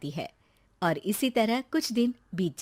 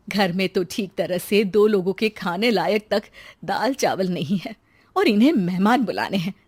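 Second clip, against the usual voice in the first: exasperated wife muttering under her breath; a wife fretting alone about an empty kitchen, annoyed; Radha grumbling; 4 dB louder than usual. Acted. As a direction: complain to yourself, fed up.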